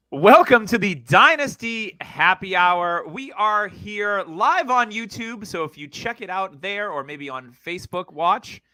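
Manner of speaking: slow, drawn-out host welcome; podcast show opener. Real, not acted. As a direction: open the show with big host energy. Opens the podcast.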